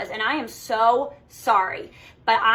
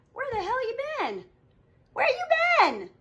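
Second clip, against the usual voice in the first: much higher, pretend indignant demand; mock nosy customer; 12 semitones higher than usual. Coach voicing nosy customers asking where she went: mock indignant high demand. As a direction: play a nosy customer wanting answers.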